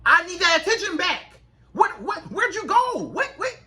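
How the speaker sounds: high-pitched, bewildered pleading; needy man. Acted. Man wanting her attention back, mock panic. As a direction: call after her as she slips away. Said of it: "make that man be like".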